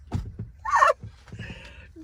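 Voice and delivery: high, voiceless cackle; high laugh. Real, not acted. Laughing at her own embarrassing story, high cackle. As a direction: burst out in a squeal of laughter.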